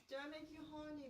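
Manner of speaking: lightly voiced Austin Powers; a hint of the groovy spy. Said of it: "an Austin Powers".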